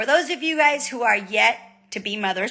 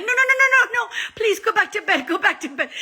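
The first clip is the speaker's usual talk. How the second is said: high-pitched mock-desperate begging; playfully frantic, high begging; frantic pleading; 13 semitones higher, faster than usual. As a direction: plead urgently in a raised pitch. Begging husband to go back to bed.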